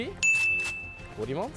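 slow, hushed voice; whispering while hiding. Real, not acted. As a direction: breathe it out quietly. Seeker hears someone, hushed.

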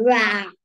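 small, playful tiger growl; storyteller's pretend roar; mock tiger roar. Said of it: "It is about the tiger".

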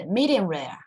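quick, neat drill reading; each term said once, briskly; quick read-through. Shown as a demonstration. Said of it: "我们很快念一次".

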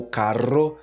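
"carro" with trilled R; Spanish "carro", tongue-tip trill; Spanish rolled R. Shown as a demonstration. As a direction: roll the R in "carro". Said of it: "Tipo, em espanhol".

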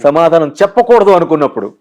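చెప్పకూడదు said through a laugh. Real, not acted. Speaker joking with the interviewer about dodging his question, laughing. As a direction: let the laugh slip in on చెప్పకూడదు. Laughs at own joke after.

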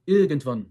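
irgendwann, baştaki i ı'ya yakın; IRGENDWANN'ı kısa, açık Alman i'siyle söyle; Almanca kısa i. Shown as a demonstration. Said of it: "Ama Ar-, Almanca'da". (Almanca telaffuzlu irgendwann)

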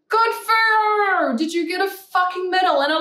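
drip sarcasm at a commenter; sarcastic. Acted. Mocking a commenter's bragging.

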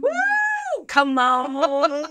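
very high whoop of delight; excited high cheer. Real, not acted. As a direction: whoop like a fan at a concert. Cheering after the song.

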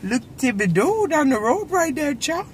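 laughing cajun accent. Shown as a demonstration. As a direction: try Cajun while cracking up. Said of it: "trying to talk Cajun".

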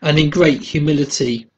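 measured spoken hymn verse; hymn read aloud. Acted. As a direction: recite it as devotional poetry.

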